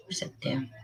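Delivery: hushed irritated whisper. Real, not acted. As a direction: whisper it to yourself, annoyed. Muttering while searching.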